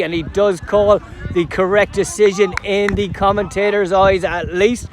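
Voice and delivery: live football commentator following the ball; play-by-play commentary. Acted. Commentator describing play from kick-off, live play-by-play delivery. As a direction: call the match as it unfolds.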